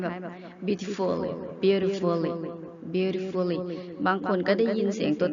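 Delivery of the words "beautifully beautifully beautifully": "beautifully" run together, the t softened toward a d; "beautifully" said fast and connected, t almost a d; linked native pronunciation. Shown as a demonstration. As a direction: blend "beautifully" smoothly like a native speaker. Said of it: "รวบมาเลยนะคะ เวลาที่เจ้าของภาษาพูด".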